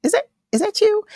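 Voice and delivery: high, surprised recognition; imitating a startled double take. Host mimics the guest spotting her at wrestling, surprised. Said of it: "you looked at me as if to say".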